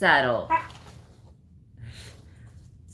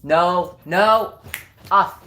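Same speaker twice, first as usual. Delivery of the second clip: loud rising "No, no. Off!"; sharp loud no; 5 semitones higher, 6 dB louder, much slower than usual. Real, not acted. Owner stopping dog jumping, sharp and loud.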